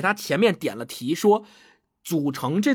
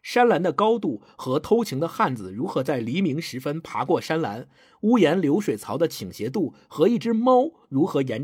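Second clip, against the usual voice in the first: reading aloud; 3 semitones lower than usual. Acted. Reads a passage aloud.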